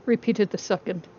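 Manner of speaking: steady, measured audiobook reading; story narration. A narrator's reading. YouTuber reading FNAF book to viewers, measured storytelling. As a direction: read the chapter to listeners as a calm narrator. Reads novel chapter aloud.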